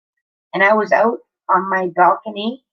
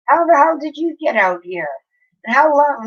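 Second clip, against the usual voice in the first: surprised; 6 semitones higher than usual. Retold or imitated. Retold disbelief at cat.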